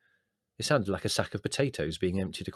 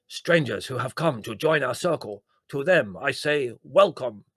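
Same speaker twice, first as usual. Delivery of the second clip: put-on Indian accent; 5 semitones higher, 6 dB louder than usual. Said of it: "with such a strong Indian accent".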